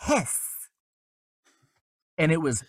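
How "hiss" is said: high, short hiss like a snake; mock snake hiss. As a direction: hiss it out like a little cartoon snake. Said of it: "And I went".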